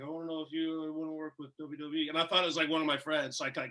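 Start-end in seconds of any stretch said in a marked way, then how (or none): 0.0-2.1 deadpan. Retold or imitated.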